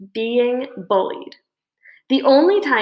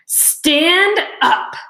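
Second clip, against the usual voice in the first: sharp order pitched up; barked command; 8 semitones higher, 3 dB louder than usual. A narrator's reading. Principal ordering Dave to stand, yelling. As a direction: snap the order at him.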